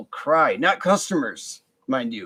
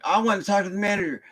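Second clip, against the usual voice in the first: mock Karen; 5 semitones higher, faster than usual. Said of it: "she went full Karen".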